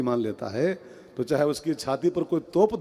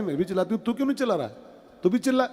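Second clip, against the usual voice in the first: higher, insistent wife pushing him to shout; wife pestering her husband; nagging wife; 4 semitones higher, much faster than usual. Retold or imitated. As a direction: needle him to yell too. Wife nagging husband during storm.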